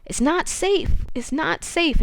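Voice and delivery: slow, high imitation of a drugged man. Drugged Eric warns Susan from the bunker, barely talking. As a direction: strain out each word as if barely able to talk. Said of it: "he's really drugged. Like, he can barely talk".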